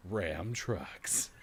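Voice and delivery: imitating a kid trying a deep voice; put-on low truck-ad attempt; child's deep voice. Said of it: "do I got a deep voice".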